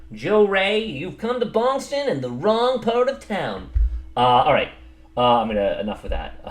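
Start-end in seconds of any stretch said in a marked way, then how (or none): 0.1-3.7 slow, high-pitched mock Boston accent; exaggerated Boston accent, drawn out and higher; fake Boston accent. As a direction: ham up a Boston tough-guy accent. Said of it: "making fun of a, of a fake accent".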